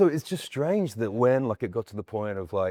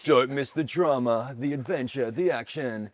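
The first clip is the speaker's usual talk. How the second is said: slow, dramatic promo read; promo announcer; 2 semitones higher, slower than usual. Shown as a demonstration. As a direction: tease each item like a TV trailer. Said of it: "different brands have different personalities".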